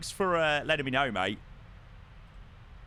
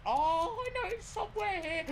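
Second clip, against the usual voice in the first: laughing; 5 dB quieter than usual. Real, not acted. Searching map, laughing.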